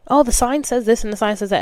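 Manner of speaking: mock gushing. Mocking her old zodiac self.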